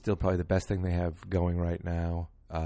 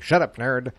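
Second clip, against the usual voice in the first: a playful shout, louder; mock yell; 4 semitones higher, 8 dB louder than usual. To a nerdy fan beside him at the show, mock shouted. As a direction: bark it at the kid like a fed-up fan. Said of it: "And I was like".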